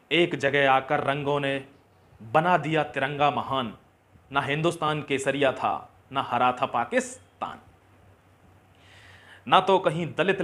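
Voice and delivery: rousing, emphatic verse with weighted line endings; stirring recited verse; patriotic poem recitation. Acted. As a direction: declaim it to the nation.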